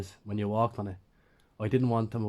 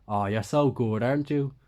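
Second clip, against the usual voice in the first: mock praise, rising on "aren't you"; sarcastic; 2 semitones higher, 4 dB louder than usual. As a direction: sweetly fake compliment to annoy him. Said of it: "I said sarcastically".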